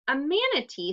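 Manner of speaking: a touch of delighted surprise; excited cry. Acted. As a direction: repeat "manatee" with lively amazement. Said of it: "Silly cried".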